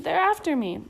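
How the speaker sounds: high, loud panicked cry; a little girl fleeing monsters in her dream; frightened cry. A narrator's reading. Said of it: "she screamed".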